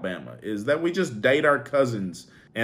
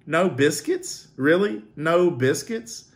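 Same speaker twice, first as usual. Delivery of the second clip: higher, slow disbelieving question; incredulous; 5 semitones higher, slower than usual. Real, not acted. Vlogger reacting to a biscuits comment, incredulous. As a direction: repeat it like you can't believe it.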